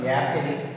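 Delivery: "apple" begun with a y glide; wrong ya sound. Shown as a demonstration. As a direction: say "apple" as "yapple". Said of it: "ya sound".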